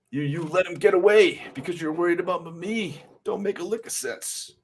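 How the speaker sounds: high-pitched voice for a comic hero; worried comic character. Acted. A friend scolds the one who let him get away, high and chiding.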